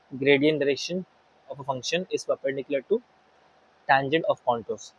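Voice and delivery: each word spelled out very slowly for notes; slow, deliberate note-taking pace; slow dictation. Shown as a demonstration. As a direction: dictate it slowly so students can write it down. Teacher dictates the key rule.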